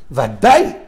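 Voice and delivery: ordinary talk, nothing marked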